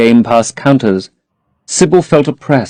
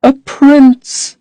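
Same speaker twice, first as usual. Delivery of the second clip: high, sing-song delighted cry; cried musically. A narrator's reading. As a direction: ring it out like music. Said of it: "she cried musically".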